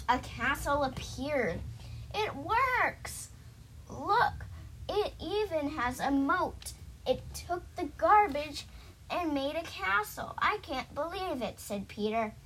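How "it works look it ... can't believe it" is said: high-pitched storybook wonder; amazed excitement. Acted. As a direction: exclaim over the magic in a raised pitch. Peter amazed that castle appeared.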